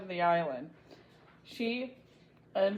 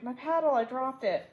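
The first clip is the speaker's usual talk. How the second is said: high frightened cry; panicked cry for a lost paddle; shriek; 5 semitones higher than usual. Acted. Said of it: "then she shrieked".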